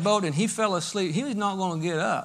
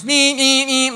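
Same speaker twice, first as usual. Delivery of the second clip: loud high beeping imitation; shrill electronic meep meep; smoke alarm beep; 6 semitones higher, 8 dB louder, slower than usual. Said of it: "like this".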